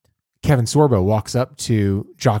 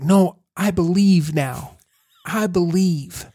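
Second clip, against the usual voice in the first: mock pleading girl; 6 semitones higher than usual. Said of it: "Sophia's like".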